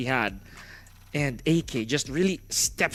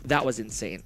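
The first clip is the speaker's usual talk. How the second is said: low and winded after the win; out of breath, hushed amazement; 7 semitones lower, 5 dB quieter than usual. Real, not acted. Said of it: "Gotta catch my breath there".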